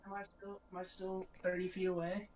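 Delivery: distant off-mic voice; through a wall. Real, not acted. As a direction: still sounding far off.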